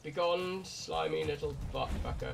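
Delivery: hammy dramatic curse; grand theatrical banishing; overly dramatic. Pretend. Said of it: "that's a bit too dramatic".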